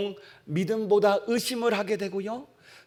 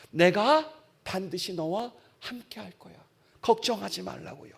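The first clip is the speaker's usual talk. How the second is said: gentle promise. Acted. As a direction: say it gently, like a comfort. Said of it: "얘기하시는 거예요".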